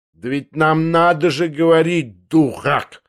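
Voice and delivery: high, exasperated cry; contemptuous impatience. Acted. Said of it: "вскричал он с тем презрительным нетерпением".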